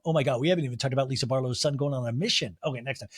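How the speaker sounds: normal talking voice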